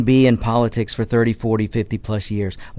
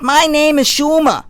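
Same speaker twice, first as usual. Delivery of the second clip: Chuck Schumer impression; 4 dB louder than usual. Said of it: "that may not be the best impersonation".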